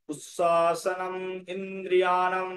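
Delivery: উচ্ছ্বাসনম and ইন্দ্রিয়াণাম said as separate, drawn-out words; piece-by-piece teaching recitation; broken into parts. Shown as a demonstration. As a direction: take it apart word by word, evenly. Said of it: "ভেঙে ভেঙে নিলাম".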